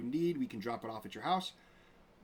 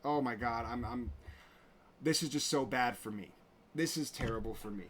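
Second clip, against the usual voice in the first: mock whiny self-pity. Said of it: "and your first thing is".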